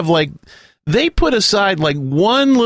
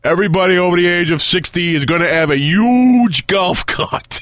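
Bernie Sanders impression; 2 semitones lower, faster than usual. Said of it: "Bernie Sanders is gonna change that".

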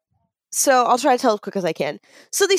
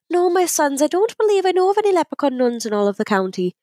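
higher-pitched nun figure in a joke; Mother Superior; 5 semitones higher than usual. Acted. Mother Superior answering two leprechauns, higher nun voice. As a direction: put on a nun's voice, pitched up. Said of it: "she looks at them and she goes".

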